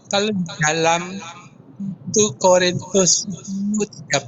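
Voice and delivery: suara terputus-putus, tidak jelas; radio breaking up. Real, not acted. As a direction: sinyal jelek, suara patah-patah. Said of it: "Suaranya nggak jelas". (suara putus-putus karena sinyal)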